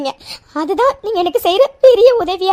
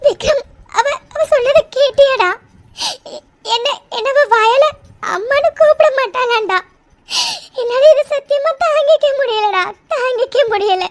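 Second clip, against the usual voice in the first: tearful. Acted. Mother grieving to her son.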